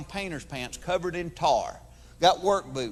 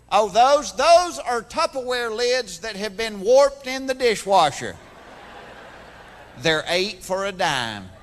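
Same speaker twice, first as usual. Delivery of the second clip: yard sale seller; 5 dB louder, slower than usual. Retold or imitated. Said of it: "yard sale seller".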